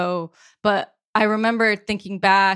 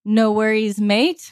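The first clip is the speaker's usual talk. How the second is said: put-on Australian accent. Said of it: "I can't do the Aussie accent properly".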